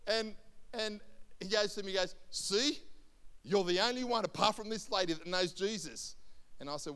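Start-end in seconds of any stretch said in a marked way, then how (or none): 2.3-6.1 mocking shopkeeper. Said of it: "he's a real mocking kind of guy".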